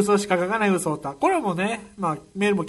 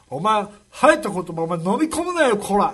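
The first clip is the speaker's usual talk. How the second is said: mock wrestler bark, louder; 長州力のモノマネ; 4 dB louder than usual. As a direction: growl it like an angry pro wrestler. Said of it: "長州力に". (長州力風に怒鳴るモノマネ)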